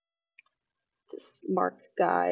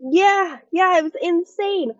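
higher mock-excited host; imitating the host; 7 semitones higher, 4 dB louder than usual. Vlogger mimics host revealing his own Tourette's, higher. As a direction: ham up his gleeful reveal. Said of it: "He's like".

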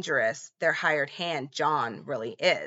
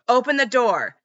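shouted command; 6 semitones higher, 6 dB louder than usual. Retold or imitated. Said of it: "he starts kicking on the door".

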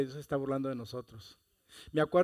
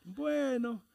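hesitant bueno; 8 semitones higher, 5 dB quieter, much slower than usual. Retold or imitated. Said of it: "Y ella se quedó".

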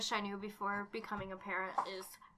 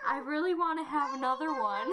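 laughing while quoting; 3 semitones higher, 3 dB louder than usual. Retold or imitated. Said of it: "he was like".

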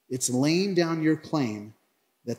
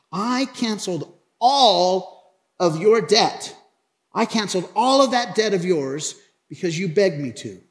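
angry rebuke; 4 semitones higher, 4 dB louder than usual. Acted. Master confronts the servant he forgave, indignant rebuke. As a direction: rebuke him deliberately, higher and louder. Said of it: "And in his anger".

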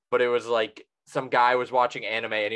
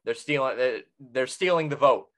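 mock outrage; 3 semitones higher, 4 dB louder than usual. Mock outrage over the Powerball.

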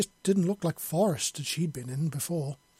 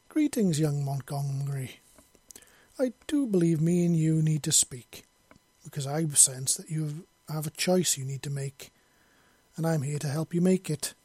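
mysterious woman voice. Acted. Mysterious horsewoman greets Monty.

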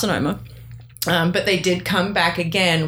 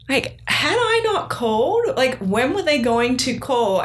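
shaky with emotion; 5 semitones higher, slower than usual. Real, not acted. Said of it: "I've got the shakes just talking".

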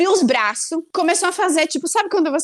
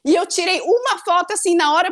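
ordinary delivery

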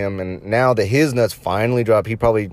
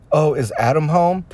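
lightly raised mock female voice; a hint of a woman asking sweetly; prank caller as a woman; 5 semitones higher than usual. Prank caller lightly voicing a woman on the phone. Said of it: "Elmer would ask".

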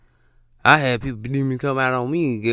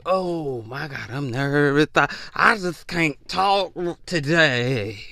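slow mock-nervous whine; slower than usual. Nervous people hearing you speak with strength, mock-nervous drawl. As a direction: stretch it out with a stumble, hammed-up. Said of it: "Some people just get nervous".

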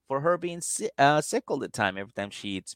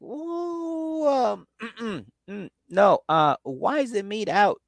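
high, prissy mock girlfriend voice; picky girlfriend; 8 semitones higher, slower than usual. Girlfriend recoiling at the meat, high and prissy. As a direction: squeal it out like a fussy tourist. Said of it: "she's like".

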